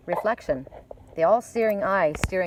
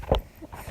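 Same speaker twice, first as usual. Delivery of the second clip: laugh. Real, not acted. Laughs after spotting her owl.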